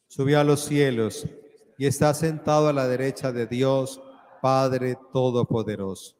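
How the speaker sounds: cathedral echo. Acted. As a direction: proclaim the creed to the whole church. Leads the creed aloud.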